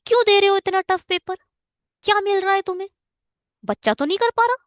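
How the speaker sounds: high-pitched, exasperated questioning; indignant challenge. Acted. Teacher taking exam makers to task over tough papers, indignant.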